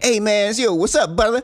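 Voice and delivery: hammed-up Black street voice; stereotypical Black accent. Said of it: "stereotypical black accent".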